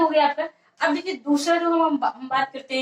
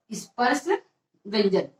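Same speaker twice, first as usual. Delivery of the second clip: स्पर्श and व्यंजन said as two separate, careful words; term spelled out; 4 semitones lower than usual. Shown as a demonstration. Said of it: "इसे हम स्पर्श व्यंजन बोलते हैं". (शब्द अलग-अलग साफ़ बोलना)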